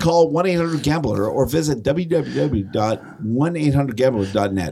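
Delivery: mock sportsbook ad read, half-laughing. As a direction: rattle off the disclaimer like a radio ad.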